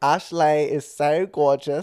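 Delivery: Australian accent. Asked by a friend to say a sentence in an accent, australian accent.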